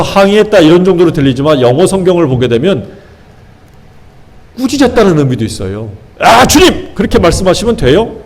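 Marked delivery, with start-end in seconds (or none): 6.2-8.2 mock outburst. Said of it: "막 이렇게 화를 버럭 냈단 얘기예요".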